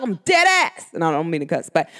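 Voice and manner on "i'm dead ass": emphatic New York-accented insistence. Shown as a demonstration. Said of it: "New York accent".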